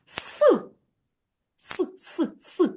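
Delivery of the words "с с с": С, с, с hissed out with no voice; teacher isolating the С sound; isolated sound. Shown as a demonstration. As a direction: repeat the bare С sound, voiceless. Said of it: "Який це звук?".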